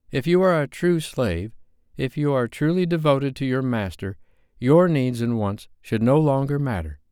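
high, loud, self-righteous lecturing; preachy Susie. A narrator's reading. Susie preaching devotion to the group, high and shrill-free insistence. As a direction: preach it from a soapbox. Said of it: "Susie Q was back on her slave soapbox".

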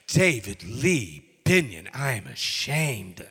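a hint of a stern scolding mother, loud on the name; mild mock of mom's full-name scolding. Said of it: "and she goes".

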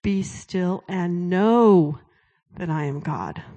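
slow, calm, steady; calm voice of God. Retold or imitated. Preacher voicing God's slow calm answer to her. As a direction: lay each word down slowly like a calm command. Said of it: "he said it again".

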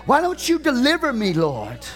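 preaching at full force, pleading; pleading preacher's cry. Acted. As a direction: cry out to God as if forsaken.

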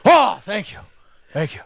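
hammed-up actor impression; Al Pacino. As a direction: imitate a theatrical star accepting praise. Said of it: "He's like".

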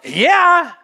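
high-pitched "well, obviously" reply; mock matter-of-fact. Disciples answering Jesus on being caught asleep, mock matter-of-fact. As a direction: play the unapologetic sleeper, pitch up.

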